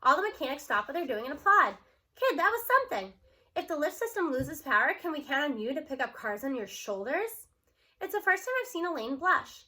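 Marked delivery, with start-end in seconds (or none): 2.2-7.5 impressed mechanic. Acted. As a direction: praise the kid like a burly mechanic. Mechanic praising strong girl.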